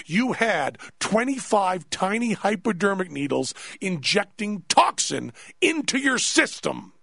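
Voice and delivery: slow, emphatic, rising in pitch; incredulous scolding. Retold or imitated. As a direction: imitate a doctor spelling out a stupid mistake. Doctor scolds idiotic patient.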